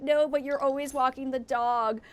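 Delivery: drawn-out mock-tearful protest; slow, lightly imitated crying complaint; retold crying. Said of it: "I just started crying".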